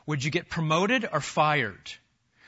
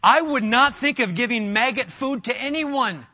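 louder, higher preaching burst; emphatic declaration; 7 semitones higher, 6 dB louder than usual. Real, not acted. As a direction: preach it with full conviction.

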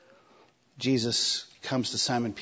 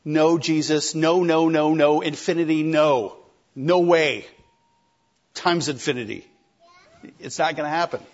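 emphatic refusal; 5 dB louder than usual. Retold or imitated. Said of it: "he's like".

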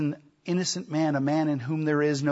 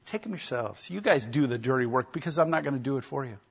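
dismissive Pilate; faster than usual. Retold or imitated. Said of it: "So he's like".

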